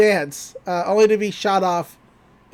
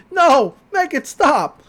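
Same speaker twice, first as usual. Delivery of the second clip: high, slow, drawn-out mock plea; panicked plea; 8 semitones higher, 5 dB louder, slower than usual. Bill begging the chaos to stop, slow and high. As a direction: stretch it out like he's losing control. Bill screaming as mind collapses.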